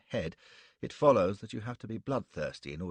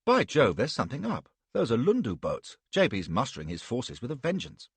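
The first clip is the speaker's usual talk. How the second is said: excited; 2 semitones higher, 5 dB louder than usual. Acted. Stuart excited at the sight.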